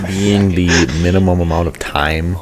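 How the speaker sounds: laughing. Real, not acted. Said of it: "Why are you silently laughing".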